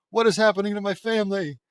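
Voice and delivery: high, loud distressed outcry; alarmed cry. Acted. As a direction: cry out in dismay at the family.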